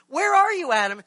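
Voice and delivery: high, loud call of God searching for Adam. Acted. God calls into the garden for Adam, high and ringing. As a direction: call out to the hiding man.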